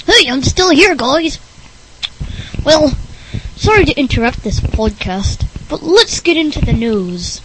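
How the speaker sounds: goofy, strange character voice; oddball Rick Berner. Acted. Oddball interrupting the podcast for news, strange voice. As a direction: barge back in as the weird guest.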